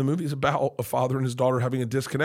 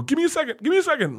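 high, choked-up request; retold crying plea; 3 dB louder, faster than usual. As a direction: beg for a moment while falling apart. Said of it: "I fall apart crying".

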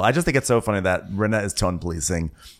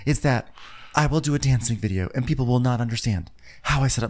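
lightly put-on higher voice; Rinna; 4 semitones higher than usual. Rinna confessing her dancing fear, lightly mock-earnest. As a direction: explain with mild mock gravity, a bit high. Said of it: "Okay, Rinna".

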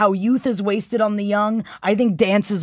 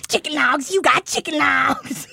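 laughing; 8 semitones higher than usual. Real, not acted. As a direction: crack up while saying it. Laughing joke.

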